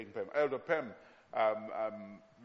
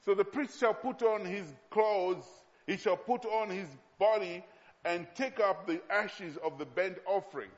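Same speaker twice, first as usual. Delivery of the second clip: emphatic scripture reading; 3 semitones higher than usual. Acted. Preacher reads the priest's instructions to the congregation, emphatic scripture reading. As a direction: proclaim the verse phrase by phrase. Resumes reading the verse aloud.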